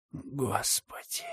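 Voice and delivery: slow, breathy gasp of horror; shocked whisper. A narrator's reading. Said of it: "прошептал комиссар". (потрясённый шёпот)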